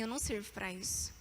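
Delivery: bem baixinho e mais grave, derrotada; desânimo relembrado. Retold or imitated. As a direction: relembrar em voz baixa a própria derrota. Relata seu desânimo após travar. (desânimo contado em voz baixa)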